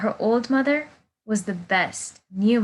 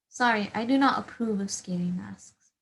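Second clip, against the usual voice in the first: mock whisper. Strict mother refuses the mask.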